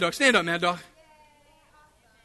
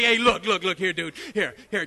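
mock devil pleading; 5 semitones lower than usual. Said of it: "that devil will be like".

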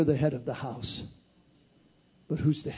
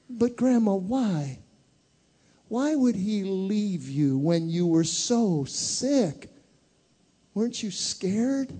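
put-on child asking; 6 semitones higher, slower than usual. Child voice questions grandma.

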